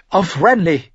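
high, loud reply; merry toast. A narrator's reading. Cersei answering her brother's toast, merry. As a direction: call back the toast brightly. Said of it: "erwiderte sie und lachte".

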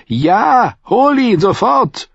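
loud, high-pitched order; exasperated shout. A narrator's reading. Tyrion to the confused Pod, exasperated high shout. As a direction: call it out at full exasperation. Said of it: "die Arme in die Luft riss und rief".

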